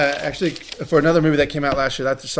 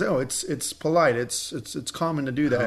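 quiet polite quote; 6 dB quieter than usual. Retold or imitated. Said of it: "she says".

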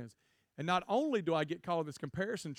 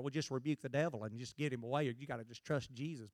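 super-spiritual advice; 2 semitones lower, 6 dB quieter than usual. Retold or imitated. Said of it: "All the super spiritual people is like".

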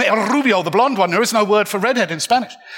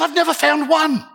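laughing reply; 9 semitones higher than usual. Retold or imitated. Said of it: "He said".

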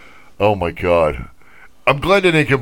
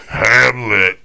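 shouted Hamlet; 3 dB louder than usual. Pretend. Stallone-voice single word, shout.

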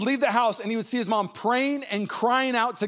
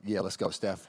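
laughing through it; 11 semitones lower, 6 dB quieter than usual. Retold or imitated. Pastor voices himself, laughing.

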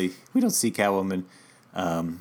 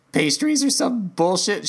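bored; 8 semitones higher, 3 dB louder, slower than usual. Retold or imitated. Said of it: "And he's like".

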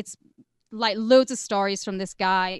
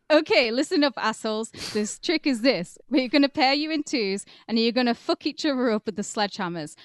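put-on Mexican accent; 3 semitones higher than usual. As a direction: boss rallying captives, Mexican accent. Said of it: "Should I do a Mexican accent?".

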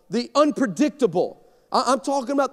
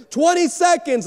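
countdown call; 8 semitones higher, 4 dB louder than usual. Retold or imitated. Producer countdown.

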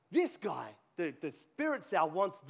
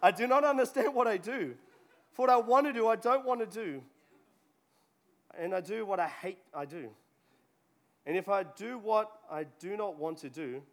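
reading with laughter; 3 dB louder than usual. Shown as a demonstration. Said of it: "Paul didn't know".

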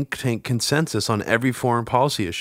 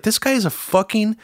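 mock disbelief; 8 semitones higher than usual. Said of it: "you're like".

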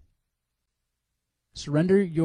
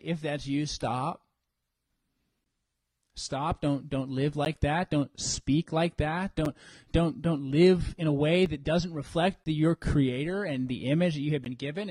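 lower, calm stern plea; God's voice; 4 semitones lower than usual. Pretend. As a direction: speak as the Lord gently warning. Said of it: "hear the Lord's voice behind that".

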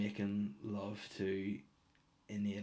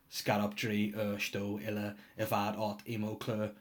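backwards speech. Shown as a demonstration. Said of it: "with backwards".

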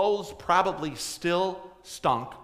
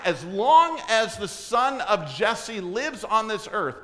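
raised voice, slowing hard on the final words; angry king; 4 semitones higher than usual. Acted. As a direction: hand down a death order. Preacher voices furious King Saul.

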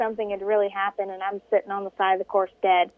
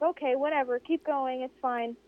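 softer and softer, giving up; resigned; 3 semitones higher, 6 dB quieter than usual. Retold or imitated. Stranded racer giving up on the driver, fading and resigned. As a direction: let it fade out, defeated.

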